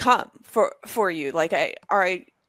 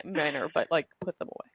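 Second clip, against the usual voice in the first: lower, softer parental instruction; not-yelling manner; 3 semitones lower, 6 dB quieter than usual. Retold or imitated. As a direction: retell it with deliberate restraint, dropping pitch and volume. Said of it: "in a not yelling".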